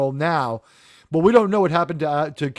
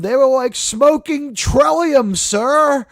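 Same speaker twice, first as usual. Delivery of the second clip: agitated pleading; 9 semitones higher, 6 dB louder, slower than usual. Retold or imitated. Retold officer pleading, defensive.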